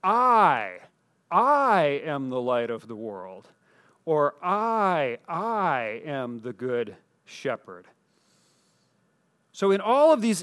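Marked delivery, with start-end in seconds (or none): 0.0-3.5 I, then I am said slow and deliberate, the I stressed; quoting Jesus, the repeated I weighty and slow; emphatic repetition. Retold or imitated. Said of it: "almost repetitive structure". 4.4-7.9 I, then I am the good shepherd said slow, softer, I stressed; quoting Jesus, weighty repeated I; emphatic repetition. Retold or imitated. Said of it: "almost repetitive structure".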